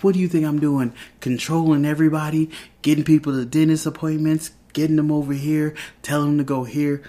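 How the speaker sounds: half-hearted mock snap at her husband; snapping. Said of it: "She's just snapping out".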